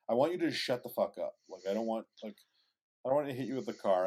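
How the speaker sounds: fast, exasperated retold snap; snapping. Man fed up with coworker's big deal, snapping. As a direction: snap back quickly, fed up. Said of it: "I snapped at him".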